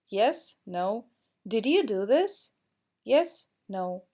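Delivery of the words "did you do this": teacher modelling rising intonation for students; rising question tune. Shown as a demonstration. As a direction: pitch rises on "this?". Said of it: "we need to raise our intonation".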